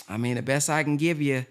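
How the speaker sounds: a hushed imitation of the pawnbroker. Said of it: "They say".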